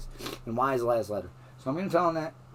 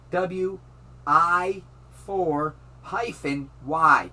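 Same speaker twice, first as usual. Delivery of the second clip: slowly spelling out a web link; slow dictating; slower than usual. Real, not acted. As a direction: spell it out with long pauses. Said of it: "let me go slower".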